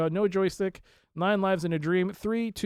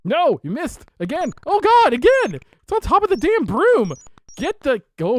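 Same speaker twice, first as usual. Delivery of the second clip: high, loud exasperated cries; frustrated yelling; 10 semitones higher, 11 dB louder than usual. Real, not acted. Streamer yelling in frustration as Freddy misses again. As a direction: yell in disbelief at the miss.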